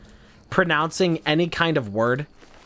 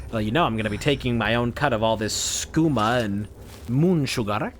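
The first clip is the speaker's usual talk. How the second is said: Khajiit voice; 4 semitones lower than usual. Acted. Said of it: "I've been doing a fucking Khajiit voice".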